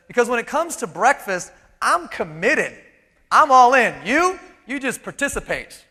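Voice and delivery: lightly voiced pig bragging it's all in; proud pig. Pig telling the chicken it's committed, mild mock pride.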